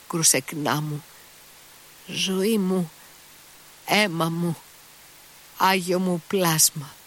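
high, slow, tender whisper of love; lightly voiced man pouring out slow, high devotion; tender endearments. A narrator's reading. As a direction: cradle each word like a lover. Mitya kneels, embraces her.

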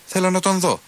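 high, insistent demand; shouting. A narrator's reading. Monk shouting at the officers to see the body, high. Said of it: "φωνάζει ο Παντελεήμων".

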